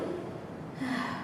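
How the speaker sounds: breathy frustrated sigh; exasperated sigh. Acted. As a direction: let out a performed sigh of annoyance. Gives up on that verse.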